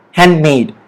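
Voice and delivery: "handmade" with silent D and weight on MADE; stress on MADE. Shown as a demonstration. Teacher repeating the correct word for students, stress on MADE in handmade. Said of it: "The stress is on the word made".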